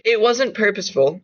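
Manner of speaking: a little pissed off. Acted. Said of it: "a little pissed off".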